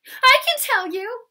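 high, loud, drawn-out call; excited shout in a high voice. Acted. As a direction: burst out with it excitedly. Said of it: "said Pippi excitedly".

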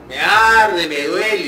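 loud pained cry, imitating the student; mock yell of burning pain; retold yelling in pain. Student imitated yelling that the injection burns. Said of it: "comenzó a gritar".

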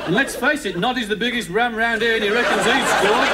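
gossiping Zebedee. Acted. Zebedee spreading Toy Town gossip, knowing character voice. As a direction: tell the scandal as a storybook character.

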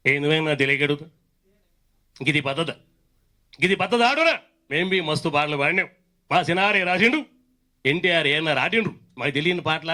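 lightly voiced Telangana politician; KCR. Mimic showing how the leader normally talks, light impression. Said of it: "KCR గారు మామూలుగా మాట్లాడితే".

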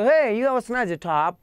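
spelled out slowly for learners; slow classroom demo of a compliment; slow example sentence. Shown as a demonstration. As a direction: say it slowly and clearly, teacher style. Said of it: "आप ऐसे बोल सकते हो".

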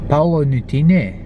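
put-on light Scottish accent on the name. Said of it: "probably not the best Scottish accent I can do".

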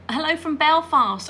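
Northern Irish greeting in a put-on Belfast accent. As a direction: have a playful go at a Belfast accent. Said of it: "want to do the accent".

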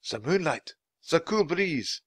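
musing. Acted. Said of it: "he mused".

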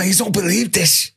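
high, slow voice for the mate telling his story; retold mate's story. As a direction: pitch him up high and drag out the shock. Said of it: "little Kev Dawes comes back with".

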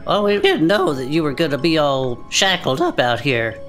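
usual speaking voice

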